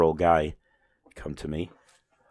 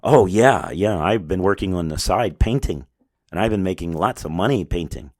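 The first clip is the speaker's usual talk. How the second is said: eager burst, louder on oh yeah; excited; 5 dB louder than usual. Retold or imitated. Job applicant eagerly boasting to the boss, excited. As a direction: gush about it like good news. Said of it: "he got all excited".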